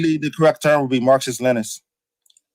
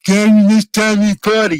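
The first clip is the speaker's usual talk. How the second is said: emphatic correction; 6 semitones higher than usual. Real, not acted. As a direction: hammer the word communist home. Correcting a misquote in a heated argument.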